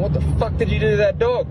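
high, fast, incredulous cry; mock-horrified pub crowd; shocked crowd. Crowd shouting in joke.

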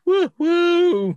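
high whooping cheer; drunk crowd whoop. Retold or imitated. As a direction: whoop from the back of the hall. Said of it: "one person in the background going".

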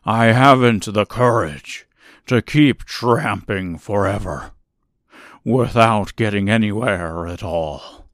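put-on lion voice, plaintive and timid; whimpering cowardly lion. A narrator's reading. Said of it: "said the Cowardly Lion with a whimper".

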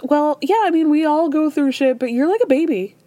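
imitating Larsa being bluntly rude; mock catty friend. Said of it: "So Larsa goes".

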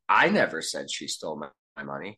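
never carries the meaning; stress on NEVER. Shown as a demonstration. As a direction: press down on never. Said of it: "you can say the same set of words".

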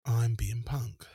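slow whispered mock line; slow, whispered send-up. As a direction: breathe it out like a try-hard punk. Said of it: "it's just a bit too".

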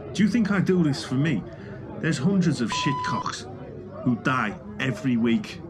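affronted medium talking up his own importance; indignant celebrity medium. Acted. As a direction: defend your calling, punching each phrase. Plays celebrity medium defending himself in interview.

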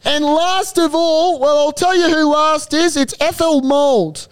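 race caller. Acted. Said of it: "your race caller".

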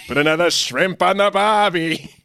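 high, hammed-up Australian accent; mock Australian accent. Husband quotes a Dumb and Dumber line in mock Australian accent. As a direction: play a jokey Australian from a movie, in Australian accent. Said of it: "quote the one from Dumb and Dumber".

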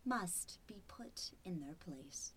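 soft sinister whisper; menacing whisper. Acted. Machine whispering threats to the captive man. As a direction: breathe the threat close to his ear.

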